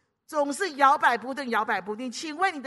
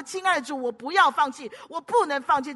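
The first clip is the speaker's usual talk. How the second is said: insistent, raised-voice prayer; forceful crying out; 3 semitones higher, 6 dB louder than usual. Acted. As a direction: call out with all your strength, refusing to give up. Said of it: "我就用力向主耶稣呼喊说".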